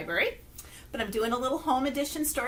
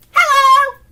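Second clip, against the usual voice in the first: quick, much louder and higher hello; fast loud hello; 13 semitones higher, 16 dB louder than usual. Shown as a demonstration. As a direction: fire it off fast. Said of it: "as fast as we can".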